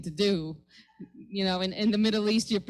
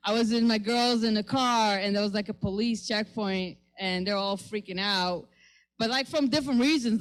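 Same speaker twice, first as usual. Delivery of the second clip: ordinary delivery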